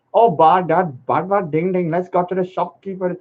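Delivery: put-on Indian accent; mock Indian accent. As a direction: briefly imitate an Indian accent. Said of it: "in an Indian accent".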